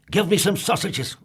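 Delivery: loud grumpy snap; snapped. Acted. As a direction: bark the order at the butcher. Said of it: "snapped Mister Grumpy".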